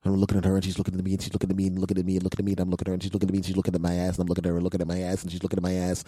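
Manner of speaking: rattled-off, droning repetition on one note; rapid monotone run. Acted. Comedian replays awkward looks with the doctor, rapid monotone. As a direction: keep looping without a breath of variation. Comic runaway list of exchanged looks.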